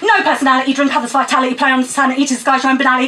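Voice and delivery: rhythmic, punchy poem recital; spoken word poem. Acted. Poet performing Moon on a Stick at open mic, rhythmic recital. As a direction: perform it to the crowd with attitude.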